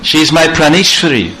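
high, pleading lover's voice, choked with emotion; Krishna pleads with Lalita at the gate, choked up. Acted. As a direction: beg Lalita through a tight throat. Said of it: "Krishna became all choked up".

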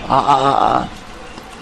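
halting choked gasps that fade to breath; catching gasps of a choked throat. Shown as a demonstration. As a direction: show being choked up with broken ahs. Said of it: "You know, choked up?".

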